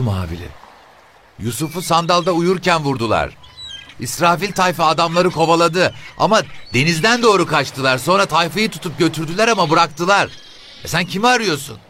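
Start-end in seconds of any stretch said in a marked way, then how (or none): 1.4-11.8 put-on a pushy, sharp old mother; shrill old woman. The boatmen's mother questions the officer, high shrill woman's voice.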